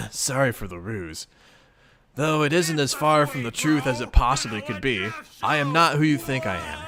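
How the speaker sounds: a measured, composed spirit voice; calm ancestor character. Acted. Aranea gently reassures the player, lightly voiced calm. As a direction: speak like a patient, knowing guide.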